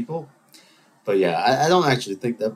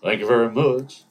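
impression of a famous singer; 4 dB louder than usual. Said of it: "The first one was the singer".

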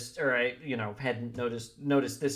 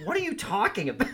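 quick, higher baffled question through a laugh; mock confusion; 7 semitones higher, faster than usual. Host voicing a confused knight with no shoelaces, laughing. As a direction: play a baffled medieval guy. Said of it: "it's like".

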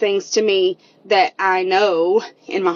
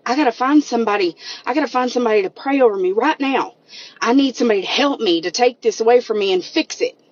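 fast, a little higher, urgent mock panic; retold panic; 3 semitones higher, faster than usual. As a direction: rush it like someone starting to panic. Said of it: "almost like I started panicking".

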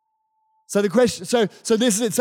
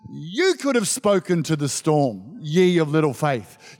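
gentle chiding; 3 semitones lower than usual. Retold or imitated. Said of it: "he's like".

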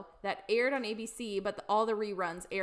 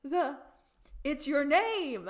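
higher, slow, ditzy London voice; London impression; 4 semitones higher, 4 dB louder, slower than usual. Imitating London flubbing the jingle for her friend, slow ditzy voice. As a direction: drawl it like spoiled London. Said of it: "when London does it".

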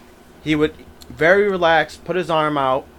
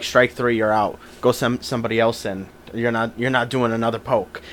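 calm deadpan; 6 semitones lower, 6 dB quieter than usual. Retold or imitated. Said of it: "he was very calm".

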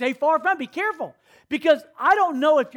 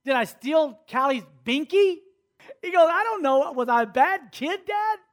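imitating young son; 4 semitones higher than usual. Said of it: "He said".

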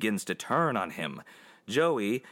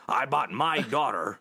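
hammed-up Southern accent; mock Southern; 3 semitones higher than usual. Retelling Nixon's Checkers speech, mock Southern accent. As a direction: put on an emotional Southern voice. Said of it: "I don't know why I'm doing a southern".

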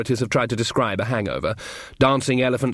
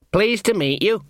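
mildly eager, higher-pitched greeting; polite; 8 semitones higher than usual. A narrator's reading. Young man meeting the librarian, polite. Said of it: "said Sean politely".

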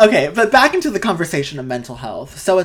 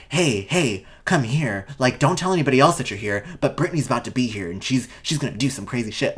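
a hint of a hushed, conspiratorial tipster; lightly voiced sneaky onlooker, softer; sly paparazzi whisper; 5 semitones lower, 5 dB quieter than usual. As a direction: onlookers tipping each other off, lightly hushed. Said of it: "they're like".

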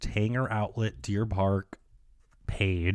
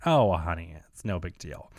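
reassuring; 4 semitones lower than usual. Retold or imitated. Retold saleswoman waves off thanks.

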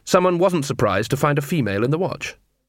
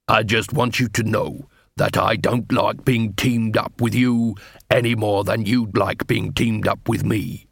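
slow, lightly voiced dwarf constable; grudging dwarf. Dwarf constable tells troll partner he dislikes pairing, slow grudging. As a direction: spell out the grudge slowly.

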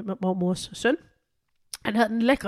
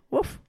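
short imitated dog bark; dog woof; 4 dB quieter than usual. Podcaster voicing one of the small dogs chiming in, dog woof. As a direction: give a little pup's woof. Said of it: "en af de to små søde vapser lige siger".

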